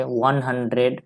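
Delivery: slow, spaced out वन हंड्रेड; teacher reading वन हंड्रेड slowly. Shown as a demonstration. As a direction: read वन हंड्रेड slowly for the class. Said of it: "तो इसको कैसे पढ़ेंगे".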